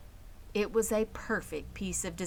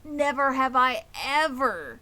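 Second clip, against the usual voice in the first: boastful rat; 5 semitones higher, 3 dB louder than usual. Acted. Templeton boasting of his feast.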